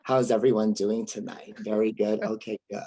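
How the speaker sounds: put-on light valley girl voice, bright and chatty; a hint of a valley girl addressing a crowd. Shown as a demonstration. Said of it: "I sound like a valley girl".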